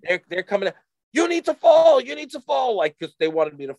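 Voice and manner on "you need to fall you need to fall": high-pitched mock call across the slope; urgent imitation of a warning yell; retold urgent call. Ski patrol to runaway skier, urgent high call.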